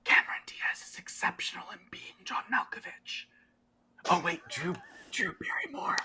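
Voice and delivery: high, soft, airy character voice; whispery game character. Acted. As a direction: play her in a hushed falsetto whisper. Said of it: "she's like".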